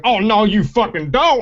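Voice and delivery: high mock outrage breaking into laughter; laughing reporter impression. Retelling the reporter's comeback, high and laughing. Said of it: "and he's like".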